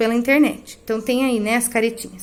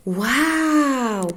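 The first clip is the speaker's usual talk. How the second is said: a quick wondering "Uau!"; interjection demo. Shown as a demonstration. Teacher showing the class how to say "Uau!", amazed. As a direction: say "Uau!" as if something just amazed you. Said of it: "quando eu digo assim".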